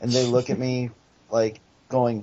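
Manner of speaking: plain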